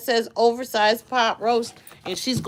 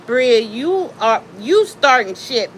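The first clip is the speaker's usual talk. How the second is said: scolding dog; 4 semitones higher, 7 dB louder than usual. Real, not acted. Owner scolds her little dog Bria, loud and sharp. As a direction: call the dog out for starting trouble.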